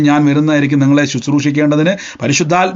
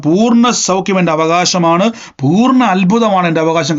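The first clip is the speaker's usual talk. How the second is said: firm declaration. Shown as a demonstration. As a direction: lean on each word like a vow. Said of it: "ഉറക്കെ പറയണം".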